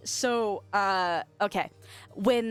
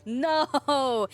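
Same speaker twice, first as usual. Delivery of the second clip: mock dismay; 3 semitones higher than usual. Mock horror at chat's driving joke.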